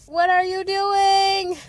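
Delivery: loud, high and slow disbelief; exasperated shout. Real, not acted. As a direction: call out the owner in disbelief. Scolding poop-eating dog owners.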